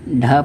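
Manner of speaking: ढ drawn out slowly, retroflex with breath; slow, careful ढ for the learners; aspirated retroflex dh. Shown as a demonstration. Teacher to Urdu learners, slow aspirated ढ. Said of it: "तो उसे".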